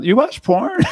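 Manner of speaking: blunt question lifting high at the end; mock-casual, pop the question point-blank. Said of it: "almost point blank".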